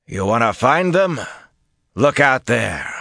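high, loud challenge; forceful retort. A narrator's reading. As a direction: throw the challenge back at him. Officer retorts, pointing to the enemy.

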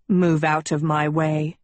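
terse, restrained angry command; stern order. A narrator's reading. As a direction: order her aside coldly. Angry prince orders Sophie aside.

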